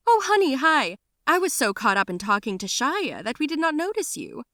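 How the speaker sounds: a mother caught off guard; flustered mother. Acted.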